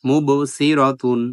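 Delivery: মুব with the ব bounced out, said slowly; slow মুব সিরতুন, jolting the ব; qalqala bounce. Shown as a demonstration. Teacher demonstrating qalqala on মুব. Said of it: "এখানে ধাক্কা দিয়ে পড়তে হবে".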